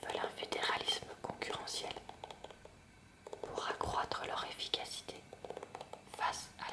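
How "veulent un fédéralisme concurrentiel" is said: ordinary talk, nothing marked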